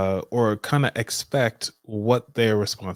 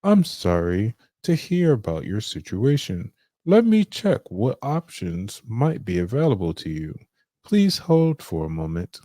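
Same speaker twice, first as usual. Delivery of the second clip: receptionist voice. Acted.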